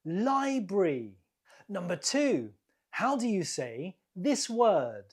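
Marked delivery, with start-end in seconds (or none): 0.0-1.1 "Library" with LI stressed; stress on first syllable. Shown as a demonstration. Teacher confirming the answer, "Library" stressed on the first syllable. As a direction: put the stress at the start of "Library". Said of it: "The stress is on the first syllable".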